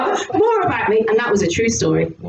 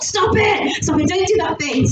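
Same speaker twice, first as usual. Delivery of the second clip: self-scolding; 5 semitones higher than usual. Retold or imitated. Tells off self for dog talk.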